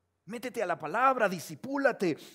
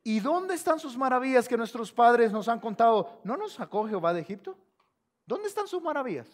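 raised-pitch challenging question; Gideon; 4 semitones higher, 4 dB louder than usual. Retold or imitated. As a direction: demand answers like an aggrieved doubter. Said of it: "Y luego pregunta".

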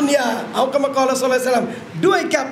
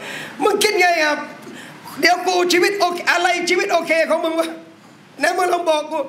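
put-on teen slang between friends; 3 semitones higher than usual. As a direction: tease a friend in coarse street slang. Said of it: "คือบอกเพื่อนกัน".

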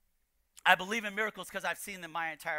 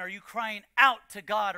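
"out" punched in "crying out"; stress on "out"; 4 dB louder than usual. Shown as a demonstration. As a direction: lean hard on the word "out". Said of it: "I've emphasized a few words for a purpose".

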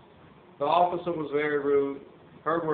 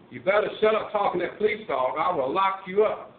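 retold holler; 3 semitones higher, 4 dB louder than usual. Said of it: "hollered at the woman".

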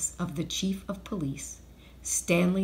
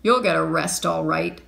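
loud, forceful shout at usual pitch; 8 dB louder than usual. A narrator's reading. Mister Dart rushing in on the thieves, shouting. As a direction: call it out loudly. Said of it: "shouted Mister Dart".

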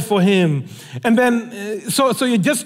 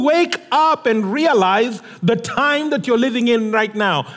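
urgent rebuke; 5 semitones higher than usual. Acted. Preacher's urgent appeal as friend.

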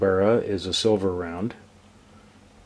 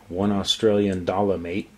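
mock Australian accent, only lightly done; a deliberately bad Australian impression; bad Aussie accent. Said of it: "How's that for a horrible accent?".

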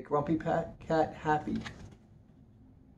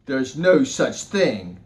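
grumpy cat voice; 6 dB louder, slower than usual. Acted. Grumpy Cat replies sourly.

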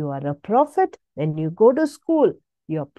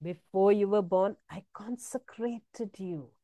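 put-on hushed and tender, like a blessing over a child; quiet tender reading of scripture; soft tender repetition; 10 dB quieter than usual. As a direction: speak it gently to each listener. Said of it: "soft repeated scripture, tender".

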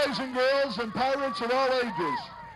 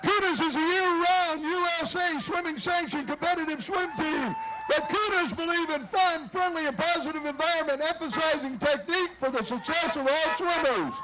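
announcer read; 3 semitones higher than usual. Acted. Reads sponsor blurb.

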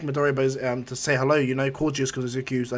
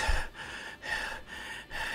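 winded exhale; 11 dB quieter than usual. Acted. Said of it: "And All Might goes".

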